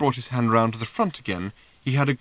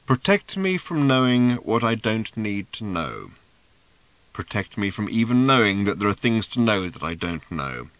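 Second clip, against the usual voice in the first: prayer recitation; 2 semitones lower, 3 dB louder than usual. A narrator's reading. Seer dictates a prayer.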